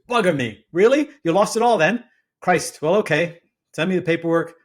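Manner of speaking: loud, high-pitched British disbelief; shocked British investor. Acted. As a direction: exclaim in startled posh British. Acted shocked reaction of British investor.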